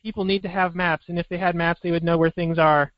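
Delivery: sincere beauty queen answer; pageant contestant. Retold or imitated. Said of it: "Miss South Carolina".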